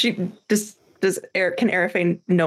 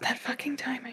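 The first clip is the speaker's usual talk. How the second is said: very soft, hushed mutter under the breath; 4 semitones higher, 13 dB quieter than usual. Voicing a character who reacts to awkward timing: muttered under her breath. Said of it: "under her breath go".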